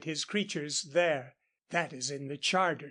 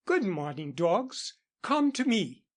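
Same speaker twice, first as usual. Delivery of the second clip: put-on pretty English accent; 3 semitones higher than usual. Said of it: "she called with her pretty English accent".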